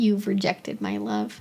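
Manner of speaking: pet dog character voice. Voicing the dog after refusing its face licks: voicing the dog's thoughts. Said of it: "She's like".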